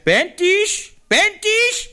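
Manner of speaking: a father flaring up in disbelief; outraged shout. Retold or imitated. Father Dirk fuming at his daughter's wish, outraged shout. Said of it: "toen stoof Dirk toch op".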